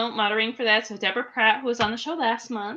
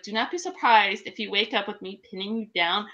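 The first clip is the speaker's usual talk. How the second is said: mock threat. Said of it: "I actually told him today".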